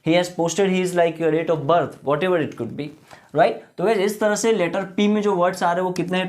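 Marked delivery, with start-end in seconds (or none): 0.1-2.9 very slow, word-by-word English; slow model sentence. Shown as a demonstration. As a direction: drag each word out for students. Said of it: "तो मैं बोलूँगा".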